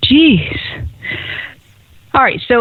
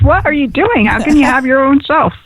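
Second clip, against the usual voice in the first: higher-pitched retold astonished question; mock disbelief; 5 semitones higher than usual. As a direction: ask it in playful disbelief. Retold astonished reaction, high pitch.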